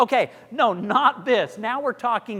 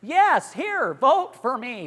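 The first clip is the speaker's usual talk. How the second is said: higher, louder, offhand ask; careless; 5 semitones higher, 5 dB louder, slower than usual. Shown as a demonstration. Coach mocks a careless, uncaring vote request. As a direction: toss it off like you don't care. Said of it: "you can't be like".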